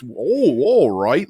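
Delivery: a hint of a hammed-up channeler voice; lightly imitating a showy channeler; mock channeler. Mocking the channeler Bashar's staged trance voice. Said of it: "I don't have to do, like, this".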